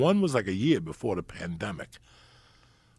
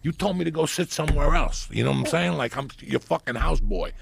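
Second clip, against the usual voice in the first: raised, heated comic argument; indignant retort; 7 semitones higher, 4 dB louder than usual. Acted. Arguing back at the man who took his seat, indignant. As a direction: argue back loudly, pitch climbing to the end. Acted quarrel with the seat taker.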